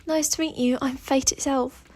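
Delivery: put-on British accent, brisk self-introduction; Fate's British accent. Fate greets Y N from the mirror, British accent. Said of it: "speaking in a British accent".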